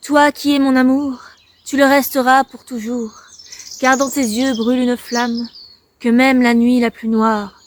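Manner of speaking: declaimed poem with pauses between lines; poem recitation. Acted. Vlogger reads an old love poem to viewers, recited. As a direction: read the verses out, leaning on each opening phrase.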